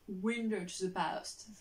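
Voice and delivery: showy English accent. Shown as a demonstration. French vlogger jokingly boasting of her English, showy slow English accent. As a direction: show off your English accent, very slowly. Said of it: "Vous avez vu mon accent anglais qui est ouf".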